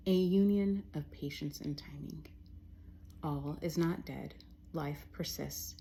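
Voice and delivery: slow, spaced-out poem with a returning refrain; poetry reading. Acted. Poet reading an untitled poem to listeners, slow poetry reading. Reads own poem aloud.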